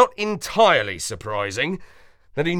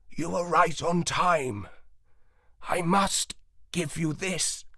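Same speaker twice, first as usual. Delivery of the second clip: a lightly voiced wise old dog, slow and clear; 3 semitones higher, 4 dB quieter than usual. A narrator's reading. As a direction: speak slowly and plainly, like an ancient dog.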